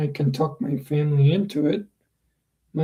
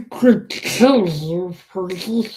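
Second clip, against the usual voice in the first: Western drawl; slower than usual. Acted. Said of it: "I'll give him Victor's voice".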